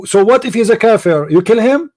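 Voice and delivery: ordinary talk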